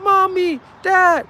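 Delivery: high, loud wail for parents; mock crying child. Preacher voicing kids during a raid, imitated crying calls. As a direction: imitate a kid calling out in distress. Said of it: "you hearing kids crying".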